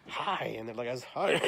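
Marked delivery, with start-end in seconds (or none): 0.1-0.6 bright-eyed hello, higher pitched; eager newcomer's hello; smiling greeting. Retold or imitated. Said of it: "smiling like this". 1.0-1.4 louder, higher, eager hello; acted-out keen greeting; smiling greeting. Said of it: "smiling like this".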